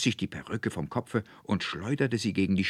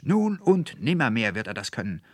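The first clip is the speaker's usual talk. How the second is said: raised, louder vehement denial; shouted protest; 6 semitones higher, 6 dB louder than usual. A narrator's reading. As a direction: insist at the top of your voice. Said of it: "schrie der Student Anselmus". (laut und heftig widersprechend)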